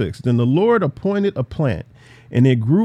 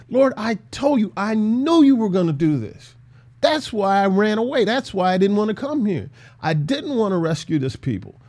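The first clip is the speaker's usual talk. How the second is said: a hint of a whiny, exasperated Jonah, higher pitched; pleading with God in a mildly aggrieved tone; Jonah complaining; 4 semitones higher than usual. Preacher voicing Jonah complaining to God, mildly whiny.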